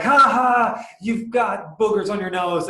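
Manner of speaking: high, loud mocking laugh then taunt; mocking tease. Friend Dia humiliating him in public, high mocking taunt. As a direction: taunt him like a schoolyard kid. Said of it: "She's like".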